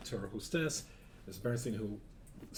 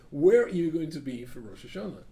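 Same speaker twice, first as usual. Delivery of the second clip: eager question; 5 semitones higher, 10 dB louder than usual. Retold or imitated. Young man repeats question brightly.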